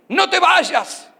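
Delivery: hammed-up plea through a laugh; stretched-out begging with laughter; mock pleading.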